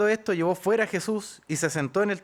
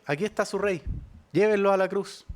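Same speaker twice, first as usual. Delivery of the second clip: ironic. Retold or imitated. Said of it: "En modo irónico".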